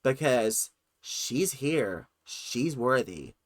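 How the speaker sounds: lightly put-on American accent; American accent drifting from mimicry into own talk; imitation American accent. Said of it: "did that entire thing in an American accent".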